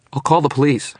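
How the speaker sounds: high, loud, strained threat. A narrator's reading. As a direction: threaten through a tight, strained voice. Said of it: "she said, her voice strained".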